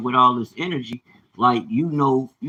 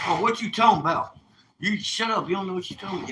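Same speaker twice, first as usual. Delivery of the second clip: mocking his woman; 7 semitones higher, faster than usual. Imitating his woman having a fit, high and mocking. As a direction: throw her indignant retort back in a put-on higher voice. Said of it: "she'll have a fit".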